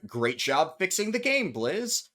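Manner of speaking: a touch of mock praise; lightly sarcastic compliment. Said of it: "which is obvious sarcasm".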